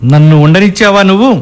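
reproachful question rising at the end; accusing question. Acted. Husband answers wife who blamed him, accusing.

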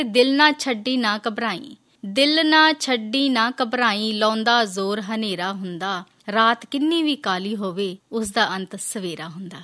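slow, drawn-out verse reading; poem recitation. Acted. Host reads listener's verse of encouragement, measured recitation. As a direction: recite it slowly, easing down at the end.

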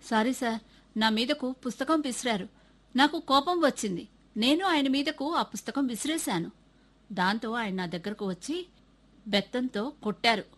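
a boy holding back tears, lightly voiced; mild tearful pleading; boy confessing to the headmaster with tears in his eyes; teary. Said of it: "గుడ్ల నీరు గుడ్లకుంటూ చెప్పాడు".

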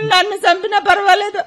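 weeping complaint; crying. Acted. Wife weeps to her husband that she can't go on. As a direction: sob out the complaint.

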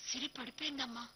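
a touch of panic; mild alarm to mother; panicked. A narrator's reading. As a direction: blurt it out worried. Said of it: "అన్నాను కంగారుగా".

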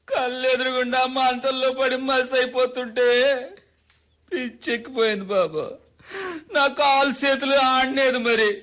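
choked, crying account of the fire; tearful plea. Acted. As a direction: tell it through tears. Witness recounting fire, tearful.

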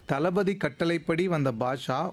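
slow, measured game-host reading; puzzle sentence read-out. Acted. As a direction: read it out slowly, phrase by phrase. Repeats the puzzle for next caller. (புதிர் வாக்கியத்தை நிதானமாக வாசித்தல்)

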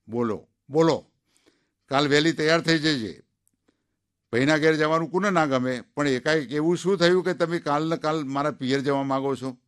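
put-on wary old wife asking why; lightly voiced suspicious old woman; old wife, curious. Old wife answers husband.

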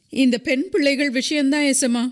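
high, fearful woman's voice; frightened murmur. A narrator's reading. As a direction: murmur timidly, pitched well up. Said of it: "என்று பயந்த குரலில் முனகினாள்".

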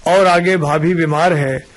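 measured verse recital with pauses between lines; poem recitation. Acted. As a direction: recite it as rhymed verse, line by line. Recites his rhyming verse.

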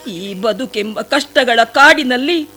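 a pleading, sorrowful plea to the sage; tearful pleading. Acted. Shabari pleads at the sage's feet, tearful. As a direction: beg the sage to open his eyes, close to tears.

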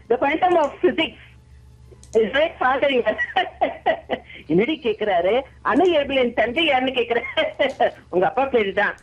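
laughing between the lines; acted laughing. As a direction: deliver the dialogue as if cracking up. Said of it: "அந்த சிரிப்பு தான் sir கடைசியில highlight".

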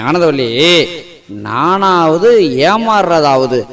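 loud, drawn-out show of confidence; blustering denial. Acted. Uncle covering up to Anandavalli that he was cheated, blustering denial. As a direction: scoff slowly at the very idea. Blusters aloud after his private aside.

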